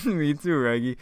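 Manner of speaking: cartoon dog with R-swapped words; Scooby. Dog agreeing with Shaggy, put-on cartoon dog voice. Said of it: "I can't do it".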